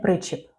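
причіп stressed on its first syllable, ПРИ-чіп. Shown as a demonstration. Quiz host gives the answer, причіп stressed on ПРИ. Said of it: "Перший склад наголошений".

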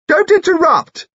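high, loud rebuke; shouted. Acted. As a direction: cut someone off with a high shout. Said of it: "shouted Lucy Lorimer".

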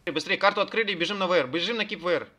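urgent commands. Real, not acted. Raid leader rushing the group.

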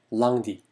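lundi pronounced "lang-dee", vowel near "ah"; French pronunciation demo. Shown as a demonstration. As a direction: model lundi firmly, first vowel open like "ah". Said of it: "약간 아 발음에 가까운데요".

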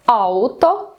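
ауто, with the beat on ау; first-syllable stress. Shown as a demonstration. Teacher giving an example of Finnish stress, ауто stressed at the start. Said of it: "він завжди на перший склад".

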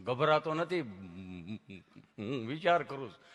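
low, halting with stuck hums; imitated tongue-tied patient; stammering friend. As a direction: struggle into each phrase. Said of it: "જીભ જલાય, સોંટે અટકે".

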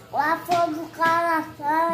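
talking with mouth full; words through a mouthful of food. Real, not acted. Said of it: "Tu tá falando com a boca cheia".

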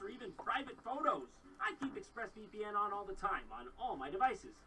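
upbeat sponsor ad read. Acted. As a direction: sell it like a podcast sponsor spot. Reads a sponsor ad.

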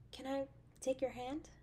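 softly whispered, intimate. Acted. Girlfriend whispering to her date, asking to hold hands. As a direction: breathe the question.

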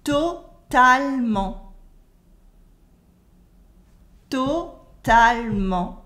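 slow "Totalement" as "to-tal-ment"; dropped French E. Shown as a demonstration. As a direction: model "Totalement" in three measured syllables. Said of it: "Repeat after me".

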